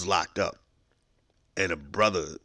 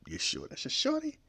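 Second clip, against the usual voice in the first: teasing inmate; 5 dB quieter than usual. Acted. Inmate teasing, voice jumps high.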